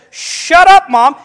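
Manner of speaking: loud, very high mock yell; boy's big, high-pitched outburst, acted out; retold defiant backtalk. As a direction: copy a kid mouthing off to mom. Retells himself copying friend's backtalk.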